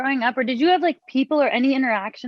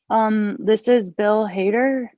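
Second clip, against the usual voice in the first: like a question; slower than usual. Retold or imitated. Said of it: "He said it like it was a question".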